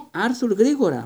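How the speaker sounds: high loud call to hurry; shouting. Acted. Wife shouting at her husband from the leaving train, high and loud. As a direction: yell at him to hurry. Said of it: "φώναξε η κυρία Weasley".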